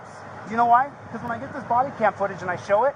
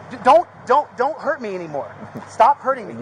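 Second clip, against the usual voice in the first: pained pleading; 3 semitones higher, 6 dB louder than usual. Real, not acted. Begging not to be hurt.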